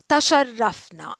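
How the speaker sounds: تشرفنا whispered, no voice. Shown as a demonstration. Teacher whispering تشرفنا to the class.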